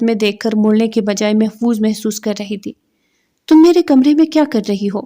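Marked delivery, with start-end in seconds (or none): 3.5-5.0 sharp, raised angry demand; angry shout. A narrator's reading. Man catching cousin in his room, angry shout. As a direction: snap at the intruder in fury. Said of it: "اس نے انتہائی غصے سے چلا کر کہا".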